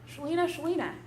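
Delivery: softly whispered, tender and close; a hushed, loving whisper of a name; gentle whisper. Acted. Jesus gently speaks to listener.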